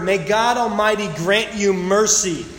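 slow, weighty blessing on God; mild solemn prayer; earnest blessing. Retold or imitated. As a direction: lean into "God" as a heartfelt plea. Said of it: "But he says this word".

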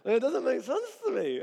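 exasperated husband. Retold or imitated. Husband questioning wife about her silenced ringer, exasperated. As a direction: sound baffled and fed up. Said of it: "I'm like".

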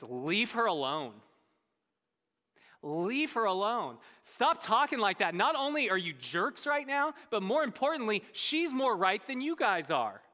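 firm acted rebuke, rising in pitch; chiding. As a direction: tell them off in defence of her. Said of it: "he even chides his disciples".

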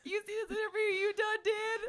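mock deep South accent. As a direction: play the Southern wife scolding her husband. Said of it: "deep South accent".

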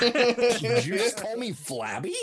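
hammed-up indignant teacher voice; offended teacher. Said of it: "The teacher's like".

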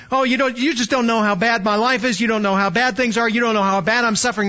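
quick, whiny complaining voice; mock complainer. Preacher mocking a complainer, fast and whiny. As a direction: whine about how bad life is. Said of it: "This isn't complaining".

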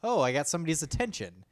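put-on the baby notices someone at last. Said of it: "He was like".

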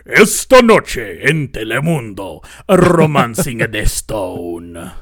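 slow, dramatic Spanish TV announcer; drawn-out Spanish network promo read; Telemundo announcer. Shown as a demonstration. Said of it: "can you do the Telemundo announcer voice?".

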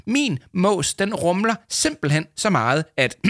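high, tense urgent voice; pinched, pressing urgency; strained. A narrator's reading. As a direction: insist as if holding it in. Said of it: "med en anspændt grimasse".

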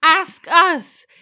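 incredulous. Acted. Incredulous in-character reply.

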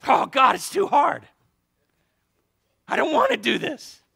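loud, whiny complaint; hammed-up whining to God; mock grumbling. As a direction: groan it like a reluctant believer. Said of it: "you're gonna grumble about his word".

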